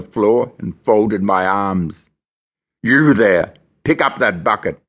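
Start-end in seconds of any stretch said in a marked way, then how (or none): 2.8-4.8 parade ground roar. Retold or imitated. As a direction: bellow it like a drill sergeant. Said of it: "the warder roared in his best parade ground voice".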